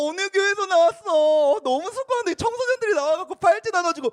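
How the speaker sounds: hammed-up delight, stretching the phrase endings; delighted churchgoer. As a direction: fuss happily over the young volunteers. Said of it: "그래서 너무 좋아해준다".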